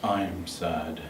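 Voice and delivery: low and quiet sad voice. Shown as a demonstration. The speaker showing a sad voice. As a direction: let it sink down. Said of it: "could you please say".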